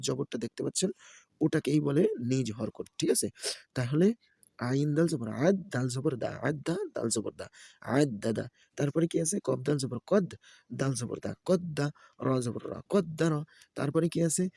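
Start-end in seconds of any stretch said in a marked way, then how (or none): 4.6-8.5 rhythmic letter-by-letter chanting; Quran-primer teacher's recitation; spelling drill recitation. Shown as a demonstration. Spells out Arabic syllables for learners. 9.5-13.3 sing-song letter-by-letter chant; Quran-primer teacher's recitation; spelling drill recitation. Shown as a demonstration. Spells out Arabic syllables for learners.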